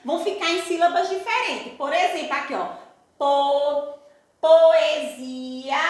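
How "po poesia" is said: split into syllables. Shown as a demonstration. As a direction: sound out "poesia" slowly, syllable by syllable. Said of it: "Na hora que vamos separar essas palavrinhas". ("poesia" separando bem as sílabas)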